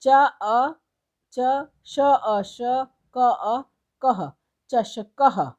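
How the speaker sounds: letters joined one by one, very slowly; drawn-out syllable blending, teacher style; slow spelling out. Shown as a demonstration. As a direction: build the word sound by sound for the class. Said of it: "इन सभी को जोड़ के एक शब्द बनाना है".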